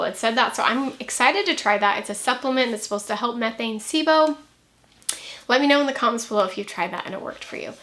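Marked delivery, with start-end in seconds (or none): 5.5-7.7 breathless, rushing; out of breath. Real, not acted. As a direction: talk fast and winded. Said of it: "I'm out of breath".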